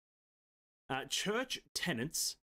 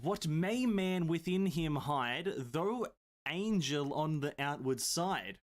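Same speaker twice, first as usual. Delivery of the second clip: theatrical recitation; 2 semitones higher, slower than usual. Acted. Streamer hamming up a Shakespeare riddle, slow and grand. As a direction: declaim it like the stage. Hammed dramatic reading.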